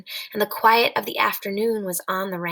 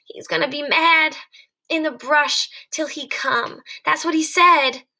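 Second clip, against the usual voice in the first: higher, louder anxious recital; 5 semitones higher, 3 dB louder than usual. Acted. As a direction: recite George's words, pitch up. Lenny recalling George.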